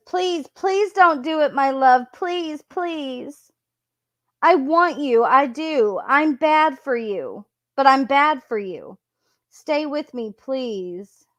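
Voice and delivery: a hint of a frantic girlfriend begging; lightly acted desperate pleading. Reading her desperate pleading messages.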